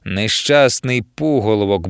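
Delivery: slow contemptuous grumble; grumbled. Acted. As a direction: mutter it with scorn, slow. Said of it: "буркнула анаконда".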